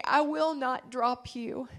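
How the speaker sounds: slow, soft reassurance; gentle promise. Acted. The Lord reassuring Lisa, soft and slow. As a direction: let the promise land gently and slowly. God's promise quoted softly.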